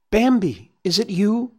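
high-pitched questioning call. A narrator's reading. Gobo stuck in snow hailing Bambi, high questioning call. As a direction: call out high, hoping it is a friend. Trapped friend calling out to Bambi.

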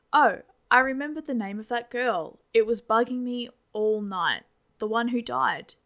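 a father rattling on over breakfast; chatty dad. Acted. Dad recalls the girl's name.

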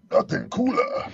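nothing cooler lifted high in pitch; high echo. Real, not acted.

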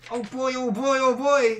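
put-on high, loud, giddy kid voice; gee-whiz excitement. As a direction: gush like a thrilled little boy. Mock excitement over XP.

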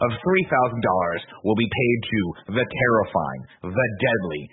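building ring introduction; Bruce Campbell announcer. Acted. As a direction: announce each title with a pause between. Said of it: "Bruce Campbell fucking knows better".

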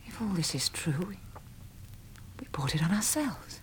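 low, hushed and halting; hushed realisation. Acted. Woman realising they brought it on themselves, hushed. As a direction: admit it softly, almost a whisper, with long pauses.

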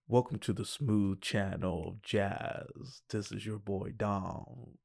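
slow, low, soft radio DJ voice; smooth jazz radio host. Pretend. Dom joking into his new microphone, a slow smooth DJ. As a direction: lay it on slow like a late-night jazz host. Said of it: "I would joke around going like".

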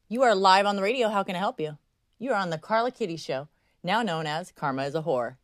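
loud opening, easing off as it goes; radio host greeting. Pretend. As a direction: answer the caller like a live show host. Answers a caller as radio host.

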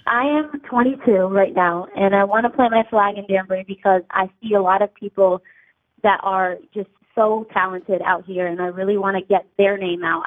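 caller on a phone line; phone-filtered voice; over the phone. Real, not acted. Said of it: "I'm on the phone right now".

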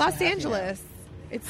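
mock Asian accent, lightly done; hammed-up Asian-accented greeting; put-on Asian accent. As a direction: joke in an exaggerated Asian accent. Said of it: "maybe she likes your Asian accent".

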